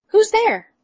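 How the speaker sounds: wolf calling out as granny; big wolf voice. A narrator's reading. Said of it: "the big voice of the wolf".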